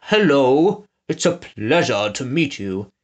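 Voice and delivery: a hint of a crisp, snooty posh accent. Shown as a demonstration. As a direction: show how a posh lady greets. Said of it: "in a crisp, snooty accent".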